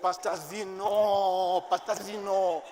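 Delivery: drawn-out plea rising to a loud shout; slow pleading then loud outraged why; upset protest. Retold or imitated. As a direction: complain to the pastor, building to a cry. Retelling upset protest to pastor.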